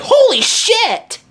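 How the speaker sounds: drawn-out astonished high yell; amazed shout. Retold or imitated. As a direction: let it out like a blown mind. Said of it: "I'm just kidding. He was like".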